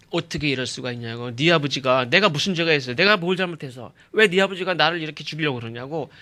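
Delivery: aggrieved questions piled one on another; imitating an indignant protest; mild acted anger. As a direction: demand answers from a friend, mildly heated. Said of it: "화를 내는".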